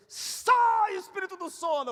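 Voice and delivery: very loud high rebuke at a sleeper; prophetess shouting. Retold or imitated. Prophetess rebuking a sleeping man in church, shouted. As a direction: cast the spirit out with a blast. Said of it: "Ela chegou nele".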